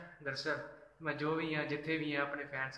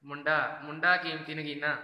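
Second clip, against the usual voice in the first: louder, announcing ਮੁੰਡਾ ਕੀਮਤੀ ਨਗੀਨਾ with punch; loud shout-out; 6 dB louder than usual. Shown as a demonstration. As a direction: call the name out proudly to the viewers. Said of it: "ਵੀਰੇ ਕਹਿ ਰਹੇ ਨਾਲ ਲੈ ਦੋ ਮੇਰਾ".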